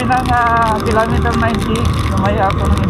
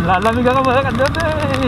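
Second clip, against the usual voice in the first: shivering; 6 semitones higher than usual. Real, not acted. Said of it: "Nanginginig yung katawan ko".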